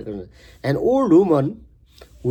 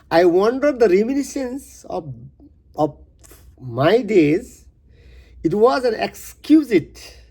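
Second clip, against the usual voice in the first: measured, earnest poem reading. Acted. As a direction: read the stanza like a recital. Rereads first stanza.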